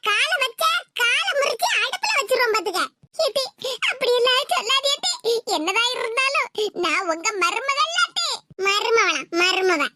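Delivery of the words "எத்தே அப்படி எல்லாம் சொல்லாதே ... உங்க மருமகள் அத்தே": whimpering, acted plea; tearful pleading. Daughter-in-law appealing to the mother-in-law rejecting her, tearful pleading. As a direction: beg with a touch of sobbing. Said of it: "கெஞ்சி கதறி அழுதுகிட்டு".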